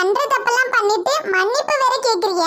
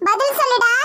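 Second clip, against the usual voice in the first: half-laughing demand. Acted. Uncle demands the groom answer, with a bitter laugh.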